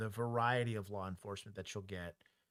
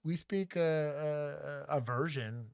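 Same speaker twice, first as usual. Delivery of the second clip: mock Australian accent; 4 semitones higher, 3 dB louder than usual. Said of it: "it'd be the accent".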